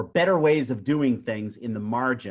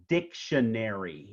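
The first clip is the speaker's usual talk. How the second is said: "Dictionary" as DIC-tion-ar-y, first syllable leading; stress on first syllable. Shown as a demonstration. Teacher gives another downbeat example, "Dictionary" stressed on the first syllable. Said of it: "the stress is on the first syllable".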